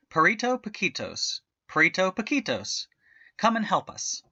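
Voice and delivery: high, bright calling. A narrator's reading. Daughter calls the dog to help, calling out. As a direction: call the dog from across the yard.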